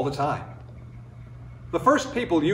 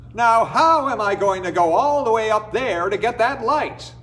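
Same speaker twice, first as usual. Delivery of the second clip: puzzled coyote; 7 semitones higher, 3 dB louder than usual. Acted. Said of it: "he asked himself".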